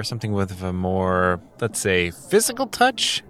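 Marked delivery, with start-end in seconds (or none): 2.1-3.2 suggestive hint. Acted. Dealer hints at violence.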